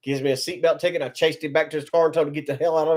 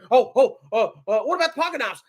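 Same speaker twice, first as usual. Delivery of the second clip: mock begging; 4 semitones higher than usual. Mocking the man who begged the magistrate, hint of whine. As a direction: lightly mimic the stammering beg. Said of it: "he was begging the freaking magistrate".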